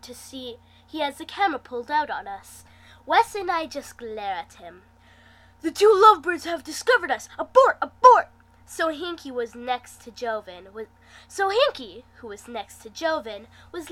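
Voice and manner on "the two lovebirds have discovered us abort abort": hammed-up high yell, fast; mock alarm. Joven caught filming the couple, hammed-up alarmed yell. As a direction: yell the retreat like a cartoon soldier.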